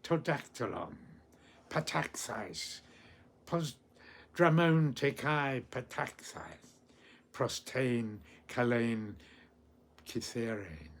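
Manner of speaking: measured Ancient Greek verse with pauses; poem recitation. Acted. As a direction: recite it through, lifting the cries.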